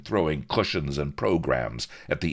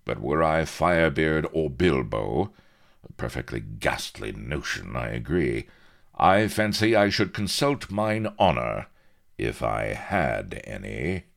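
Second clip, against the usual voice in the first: lightly haughty captain, louder then dropping away; haughty officer; 5 dB louder than usual. Acted. Captain goads pirates about their honour, mild haughtiness. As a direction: needle them with airy disdain.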